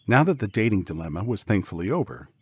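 ordinary delivery, nothing marked

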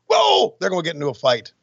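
normal talking voice

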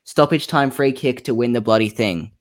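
a half-hearted mock shout of a caps-lock tweet. Shown as a demonstration. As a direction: read it out like a mild mock yell. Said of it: "So I'm gonna shout this".

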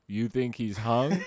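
mildly innocent retold question; innocent retelling. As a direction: recount it as harmless. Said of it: "and then I go".

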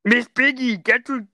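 action-hero voice, high at first, easing down; Arnold Schwarzenegger. Acted. Action star urging the pig to run away, put-on urgency. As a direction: play an action star as a puppet frog. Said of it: "Arnold Schwarzenegger".

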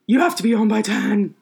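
cracking voice on a mock warning. Real, not acted. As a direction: voice cracking while laughing. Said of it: "I don't know why my voice keeps cracking".

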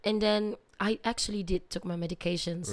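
hoarse, strained sore-throat voice. Real, not acted. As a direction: speak through swollen tonsils. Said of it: "I've already had this sore throat".

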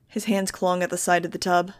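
plain reading voice

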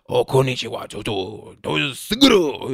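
hammed-up mock Japanese accent; stereotypical Japanese accent. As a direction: caricature a Japanese accent with nonsense syllables. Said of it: "the very stereotypical".

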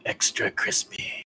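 slow, near-whispered mutter; muttered under breath. Acted. Player's character gloats over a downed foe, muttered under breath. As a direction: mutter it slowly, barely voiced. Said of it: "I just mutter under my breath".

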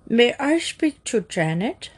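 lightly muffled phone disguise. Acted. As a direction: speak as if through a cloth, with a marble in your mouth. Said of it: "the muffled voice of the chief".

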